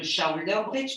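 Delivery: English term with a French accent; lightly French-accented English. Real, not acted. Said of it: "pardon pour mon accent".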